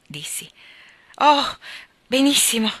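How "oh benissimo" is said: much higher and louder happy cry; happy exclamation. A narrator's reading. Fiona hearing Mark returns to Hong Kong, overjoyed. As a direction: burst out with delight for her friend. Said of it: "esclamò Fiona, evidentemente felice per me".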